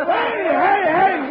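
usual speaking voice

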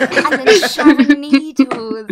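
slow, hushed spooky storyteller; spooky ghost story voice. Pretend. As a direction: draw it out like a campfire ghost story. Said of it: "ghost stories about the queens".

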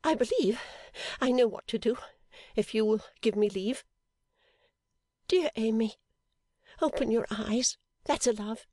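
high, tearful, fretful pleading; tearful Fanny. A narrator's reading. Fanny tends fainted Amy, tearful and fretful. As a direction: fuss over Amy near tears. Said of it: "bursting into tears".

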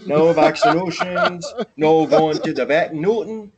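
slow, rounded Canadian vowels; hammed-up Canadian refusal; mock Canadian accent. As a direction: put on a joke Canadian accent. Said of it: "his best accent is the Canadian one".

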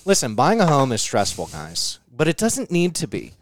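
smooth salesman pitch voice; mock ad read. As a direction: sell it like a commercial.

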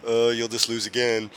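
deadpan, stone-faced bad-actor impression; expressionless Mark. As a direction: mimic a teenager who shows no emotion whatsoever. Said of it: "just, like, completely expressionless".

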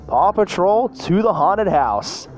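rally the team with energy; excited exclamation. Acted. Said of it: "Ryder exclaimed".

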